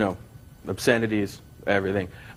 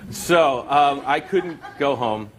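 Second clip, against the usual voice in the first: laughing; 4 semitones higher, much slower than usual. Real, not acted. Still laughing after the joke.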